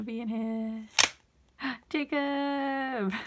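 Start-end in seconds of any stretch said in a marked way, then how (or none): 1.6-3.1 gasps then blurts the name; delighted gasp of recognition; sudden happy surprise; surprised gasp. Real, not acted. Gasp on opening envelope.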